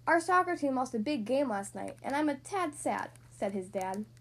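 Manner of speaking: lively storybook read-aloud; reading to children. A narrator's reading. Podcast host reading a picture book to young kids, lively read-aloud.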